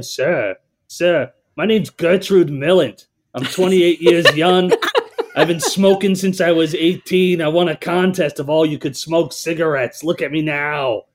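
a hammed-up old woman caller, laughing through it; Gertrude voice. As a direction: ham up a cackling chain-smoking granny. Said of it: "do this voice".

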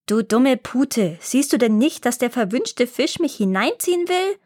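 mild mock roar. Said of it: "brüllte der Zwerg".

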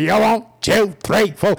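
lightly voiced drill count; company commander cadence. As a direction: call out the count like a Navy commander. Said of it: "Company commander said".

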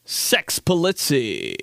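slow, breathy-style announcer read; sexy voiceover. Shown as a demonstration. Host mimicking a sexy voiceover for the name. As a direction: purr the name like a sultry radio voiceover. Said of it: "some sexy voiceover like that".

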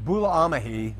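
"bulamahi" with an h before the last syllable; corrected pronunciation. Shown as a demonstration. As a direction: sound out "bulamahi" in full, ending "-ma-hi". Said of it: "is really the way to say it".

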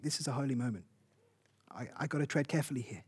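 hushed inner thought. Retold or imitated. Listener sensing a holy moment, thinking in a hushed voice. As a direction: hush as if you are in a holy moment. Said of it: "you think".

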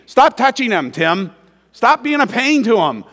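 loud firm mom scolding. Retold or imitated. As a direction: tell the kids off like a tired mom. Mom scolding kids in car.

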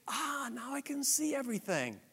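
high, soft, self-satisfied musing; smug inner voice. Retold or imitated. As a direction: pitch it up like a pleased know-it-all. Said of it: "And we think".

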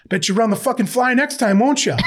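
high, taunting mock yell breaking into laughter; livid coach. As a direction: needle the player as an exasperated coach. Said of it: "he goes".

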